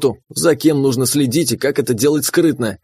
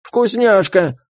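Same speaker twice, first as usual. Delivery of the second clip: higher, demanding little critter; demanding creature voice; 6 semitones higher, much slower than usual. Acted. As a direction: demand the treat greedily. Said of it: "потребовал Крот".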